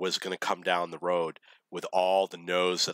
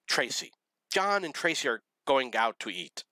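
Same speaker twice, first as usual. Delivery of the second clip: higher-pitched imitation of tearful complaint; mock crying; 5 semitones higher than usual. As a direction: retell it as a tearful announcement. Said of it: "she's crying and crying".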